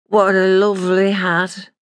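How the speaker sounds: slurred, tipsy words; drunken slur. Retold or imitated. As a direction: let the words smear together, drunk. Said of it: "she slurred".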